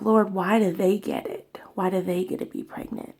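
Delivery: pained whisper to God; hurt, whispered prayer; whispered plea. Retold or imitated. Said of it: "and you think".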